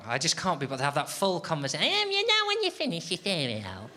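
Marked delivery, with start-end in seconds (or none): 1.9-3.9 lightly voiced fussy housemate; patronising explainer voice. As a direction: talk down to them as if to a toddler. Explaining recycling to housemates, put-on voice.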